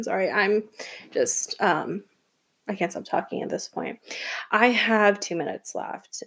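hushed real whisper, almost no voice; whispered aside. Real, not acted. Podcaster whispers to listeners about running out of time, hushed whisper. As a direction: drop to a whisper as if sharing a secret.

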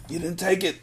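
quiet, high and gentle; soft insistence. Acted. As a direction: say it softly, willing her to believe. Breeze repeats the words softly.

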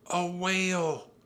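high, drawn-out exclamation; excited. A narrator's reading. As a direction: marvel slowly at the sighting. Annie announces the sighting.

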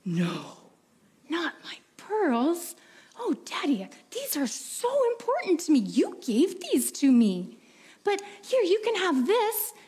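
put-on girl pleading with her father over her pearls; pleading little girl.

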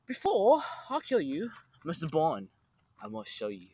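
trippy villain voice. Pretend. Player reading a card as Bond's nemesis, trippy villain voice. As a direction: do a trippy little movie villain. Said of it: "I'll do that, like, trippy little villain voice".

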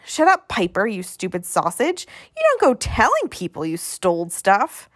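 put-on mildly cross little boy scolding his brother; bickering child's telling-off, pitch jumping; squabbling kid. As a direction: scold him like a bossy kid. Acted quarrel between two boys.

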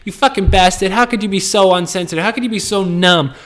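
high-pitched hammed-up indignant rant; mock outraged viewer. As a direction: play an offended viewer scolding him, overdone. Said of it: "looking at me like".

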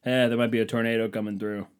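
mock offhand shrug of a delivery; nonchalant. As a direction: toss it off like no big deal. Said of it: "really a nonchalant way to say that".

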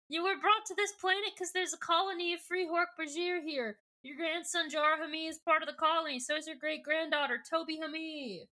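high, urgent mock pleading; not yet calm. Cassie explaining to Aldrea about the colony, urgent mock distress. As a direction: rush it out high and strained. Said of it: "she kinda calms down".

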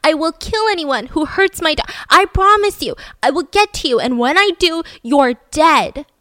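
loud, high furious threats into a voicemail; screaming threats. Retold or imitated. Father screaming threats at his daughter's kidnapper, furious and loud. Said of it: "he started screaming voicemails saying".

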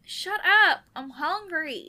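loud ragged breathing through words; struggling for breath while talking; heavy nose breathing. Acted. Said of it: "But you're breathing so loud".

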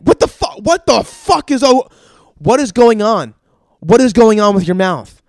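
loud, high-pitched horrified outburst; appalled shock. Retold or imitated. Dentist seeing the patient's open mouth, appalled. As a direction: act a dentist shouting in disbelief.

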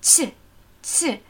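"Z" as in German Ziel, lightly released; soft Z. Shown as a demonstration. Teacher isolating the Chinese consonant, soft Z. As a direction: make "Z" soft, without buzz or hardness. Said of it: "weich und aromatisch".

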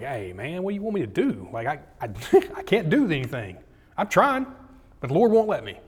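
acted helpless pleading, pitch jumping up; exasperated protest. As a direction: plead that it's out of your hands. Acted reply to angry king.

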